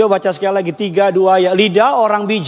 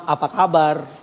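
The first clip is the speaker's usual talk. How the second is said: gentle tone; 3 semitones lower than usual. Shown as a demonstration. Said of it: "beda nada".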